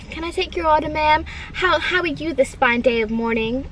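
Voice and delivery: lightly put-on drive-through worker voice; mildly hammed-up order taker over the intercom; weird voice. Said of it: "weird voices when he was giving".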